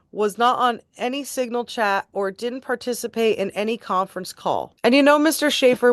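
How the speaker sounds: measured, emphatic reading of a judge's remarks; formal read-aloud. Acted. Reading a judge's sentencing remarks to listeners, formal and deliberate. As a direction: read it out like a court statement, clearly projected.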